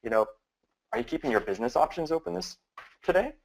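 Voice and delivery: relaxed, offhand question, quick and light; casual, no big deal. Shown as a demonstration. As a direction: toss it out like it's nothing. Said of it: "no big deal".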